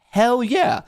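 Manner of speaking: high triumphant cheer; pumped-up whoop; excited. Real, not acted. Cheering card meaning.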